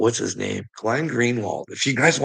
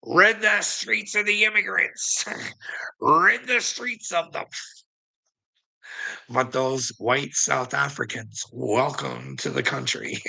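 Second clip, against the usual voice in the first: much higher, slow mocking Trump voice; 4 semitones higher than usual. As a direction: mimic a blustering Trump, high and pompous. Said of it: "Donald Trumper Humper over there going".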